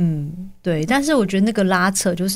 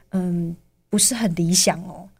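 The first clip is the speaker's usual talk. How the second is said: grave teacher; 2 semitones lower, 4 dB quieter, slower than usual. Retold or imitated. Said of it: "怎么说出来感觉比受伤还严重".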